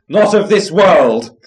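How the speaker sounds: high, loud exclamation; crying out. A narrator's reading. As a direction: fling it out as a startled cry. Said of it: "the polecat cried".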